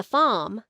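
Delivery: FARM with no R, an open ah; R dropped. Shown as a demonstration. Teacher imitating little kids, R left out. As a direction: say farm as a child who misses the R. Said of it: "not putting the R sound in".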